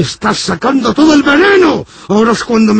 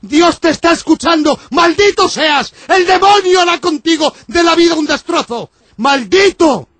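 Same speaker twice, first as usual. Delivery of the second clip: priest cursing; 6 semitones higher than usual. Acted. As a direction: curse him from the pulpit.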